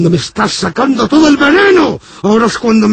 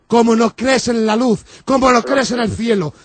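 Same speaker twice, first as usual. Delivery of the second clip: ordinary talk, nothing marked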